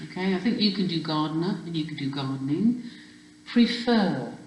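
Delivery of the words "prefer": "Prefer" with the weight on the second syllable; stress on second syllable. Shown as a demonstration. Teacher letting spellers hear the stress, "Prefer" stressed on the second syllable. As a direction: lean into the end of "Prefer". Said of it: "I can hear the stress there".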